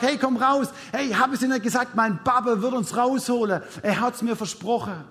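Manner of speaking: acted jubilant told-you-so; triumphant boy's quote. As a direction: urge your friend out, proud of your dad. Boy exultant, pulling next friend out.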